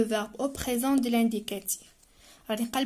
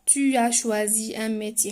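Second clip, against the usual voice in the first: slow, clear dictation read; spelling out a model sentence slowly; slower than usual. Shown as a demonstration. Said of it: "Le participe passé ديال choisir".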